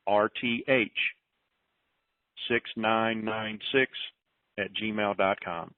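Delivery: slow, careful spelling repeated; slow dictation. Shown as a demonstration. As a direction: say each character slowly so people can copy it. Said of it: "You want me to say it one more time?".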